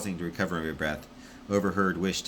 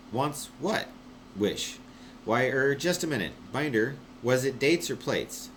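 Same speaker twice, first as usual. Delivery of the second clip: higher, bewildered radio chatter; confused relay voice; 7 semitones higher than usual. Acted. Wish asking Binder what he said, higher and confused. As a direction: sound lost and muddled.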